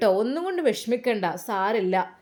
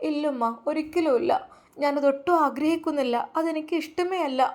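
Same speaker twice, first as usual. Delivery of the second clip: put-on higher girl's voice, firmly refusing; young girl refusing; 5 semitones higher than usual. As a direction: voice Hamda pleading no. (ഉയർന്ന സ്വരത്തിൽ പെൺകുട്ടിയുടെ നിഷേധം)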